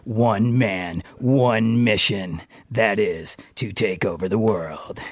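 deep, slow radio DJ; low, drawn-out late-night DJ; downtown DJ voice. Shown as a demonstration. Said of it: "The downtown D J voice".

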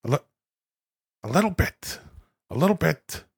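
slightly soft, repeated catchphrase impression; Al Pacino doing Robert De Niro. Pacino quoting his friend Bobby, lightly voiced mock De Niro. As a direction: lightly try out a famous actor's mannered phrase. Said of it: "And Bobby says".

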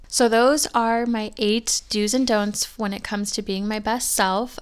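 stuffy, congested voice; congested, like a head cold. Real, not acted. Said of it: "sorry if I sound a little congested".

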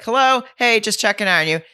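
high, bright mom checking in; chirpy mom. Retold or imitated. Mom popping in on her son, high and chirpy. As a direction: sing it out like a hovering mom. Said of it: "And she's like".

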